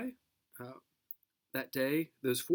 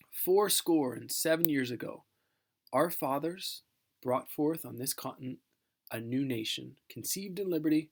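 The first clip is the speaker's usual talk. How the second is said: measured, solemn recitation of the address; formal speech reading. Acted. Teacher reading Lincoln's Gettysburg Address to the class, solemn oration. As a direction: read it like a dignified oration.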